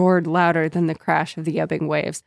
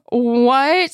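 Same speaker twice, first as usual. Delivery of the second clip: shocked what; 6 semitones higher, 5 dB louder than usual. Retold or imitated. Friends shocked.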